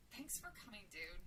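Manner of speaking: soft, understated thanks; quietly grateful, dropping low at the end; sincere gratitude. A narrator's reading. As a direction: thank a friend softly and sincerely. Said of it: "told her friend with real gratitude".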